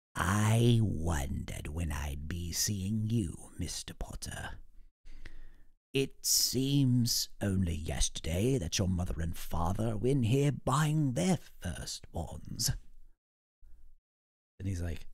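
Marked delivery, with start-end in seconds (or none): 0.1-12.7 put-on speaking slowly like someone very old. Recounting the wand shop scene, speaker does Ollivander greeting Mr. Potter in an aged voice. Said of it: "like it's an aged voice".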